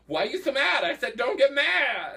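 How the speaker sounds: high, loud playful scolding; mock exasperation. Joking with guest about a catchphrase, mock exasperated. Acts out exasperated repeat of the phrase.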